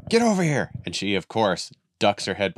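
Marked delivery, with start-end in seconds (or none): 0.1-0.7 much higher, louder impatient shout; irritated call. Retold or imitated. Frustrated owner on a stone wall yelling for his dog. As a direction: bark it at a dog that won't come. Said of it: "all puffed up and frustrated".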